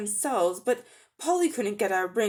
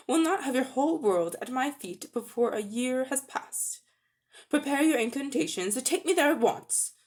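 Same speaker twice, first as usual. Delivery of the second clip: commanding queen; 3 semitones higher than usual. Acted. Jadis threatens and commands.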